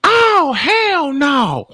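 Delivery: very high, very slow drawn-out Oh, hell no; Steve Harvey. Retold or imitated. Host mocking the clip like Steve Harvey in disbelief. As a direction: stretch it out high like a game show host. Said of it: "I'm like Steve Harvey".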